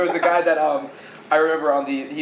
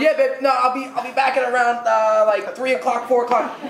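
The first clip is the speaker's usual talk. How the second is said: higher, casual phone-call chatter; man on the phone; 6 semitones higher than usual. Retold or imitated. Ferry man telling babe when he'll be back, casually. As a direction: lightly imitate a guy reassuring his babe.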